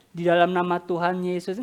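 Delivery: soft, solemn formal prayer close; a touch of formal church prayer; formal prayer ending. Shown as a demonstration. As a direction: end the prayer in a quiet, churchly way. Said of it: "Nggak gitu".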